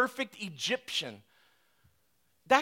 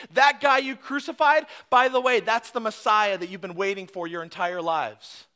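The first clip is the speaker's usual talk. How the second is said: bold accusing declaration; 3 semitones higher, 5 dB louder than usual. Retold or imitated. Peter telling the crowd their victim was the Messiah, loud and bold. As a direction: confront them with who he was.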